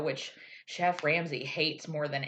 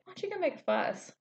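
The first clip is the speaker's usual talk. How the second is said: mock producer; 11 semitones higher, 3 dB quieter than usual. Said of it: "the producers are like".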